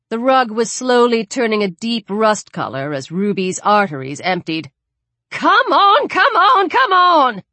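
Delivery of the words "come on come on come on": high, loud repeated yells; panicked, insistent shouting; frantic urging. Acted. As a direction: yell to hurry them along. Frantic rush to stop bleeding.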